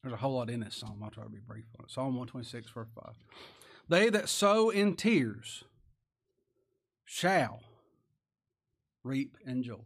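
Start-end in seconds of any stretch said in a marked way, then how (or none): 3.9-9.8 slow, high and loud, each phrase set apart; emphatic scripture reading. Acted. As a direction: proclaim it slowly with weight.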